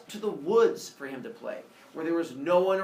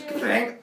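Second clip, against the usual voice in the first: short, higher imitated thud; punchy falling-down sound effect; cartoonish drop noise; body hitting ground; 6 semitones higher, 5 dB louder than usual. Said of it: "the teacher goes".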